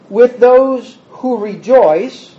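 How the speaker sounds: slow, with the weight on those; slowed scripture line with rising end; slow, stressed reading. Shown as a demonstration. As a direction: draw the phrase out and lean on those. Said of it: "So, weep, uh, rejoice".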